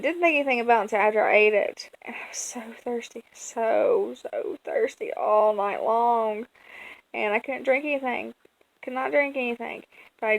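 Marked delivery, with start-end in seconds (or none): 2.0-6.5 hushed whisper. Real, not acted. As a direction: drop to a whisper. Whispered recollection of mistake.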